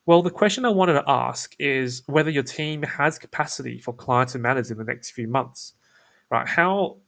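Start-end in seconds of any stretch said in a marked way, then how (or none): 0.0-5.7 eager salesy lift, voice rising on the question; keen, salesy. Shown as a demonstration. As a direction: sound too keen to sell. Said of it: "imagine if I say this instead".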